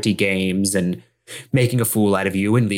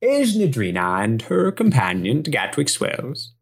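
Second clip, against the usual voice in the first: lightly voiced pirate narrator; hint of an old sea dog; 4 semitones higher than usual. Shown as a demonstration. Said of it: "launched into that voice".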